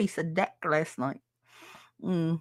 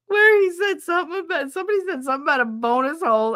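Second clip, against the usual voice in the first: excited; 11 semitones higher, 3 dB louder, faster than usual. Real, not acted. Excited retelling of a show.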